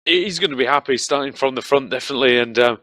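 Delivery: breathless after the race; panting between words; out of breath. Real, not acted. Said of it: "I'm just out of breath".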